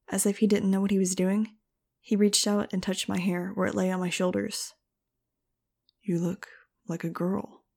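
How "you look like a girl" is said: slow, hushed, amused murmur. Acted. Fang teasing Max about her hair, hushed amusement. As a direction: let quiet amusement color it. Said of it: "His voice held amusement".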